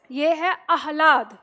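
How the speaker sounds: आह्लाद said slowly with a quick light ह; correct pronunciation. Shown as a demonstration. Teacher models आह्लाद for online class students, slow and careful. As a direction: say आह्लाद with the ह slipped in fast, आ-ह्लाद. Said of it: "आह्लाद नहीं पढ़ेंगे".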